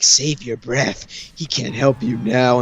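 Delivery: slow, dismissive villain voice; Orochimaru. Retold or imitated. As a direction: draw it out, coolly dismissing their plea. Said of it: "And Orochimaru's like".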